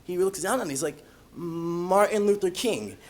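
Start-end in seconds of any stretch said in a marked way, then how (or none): 1.4-3.0 slow, lightly voiced child reader; kindergartner reading. Kindergartner reading teacher's name tag, slowly sounded out. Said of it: "when he read my name tag".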